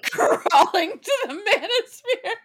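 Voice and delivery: laughing. Real, not acted. Cohost cracking up at quote.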